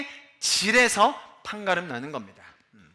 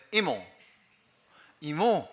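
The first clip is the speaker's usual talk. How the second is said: Busan native pronunciation; 4 semitones lower, much slower than usual. Shown as a demonstration. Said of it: "원어민 발음 바로 들-, 따라해보세요".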